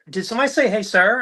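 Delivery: high, fast, puzzled woman's voice; puzzled shopper. Retold or imitated. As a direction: ask it quick and confused, way up high. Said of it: "she like".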